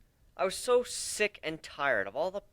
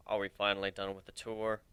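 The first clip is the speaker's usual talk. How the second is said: irritated; 7 semitones lower, 5 dB quieter than usual. A narrator's reading. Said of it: "he asked in an irritated tone".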